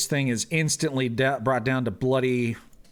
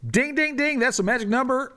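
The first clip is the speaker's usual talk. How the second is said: high, bright game-show ding; excited; 11 semitones higher than usual. Real, not acted. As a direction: announce the exact kill gleefully. Announcing a perfect kill roll.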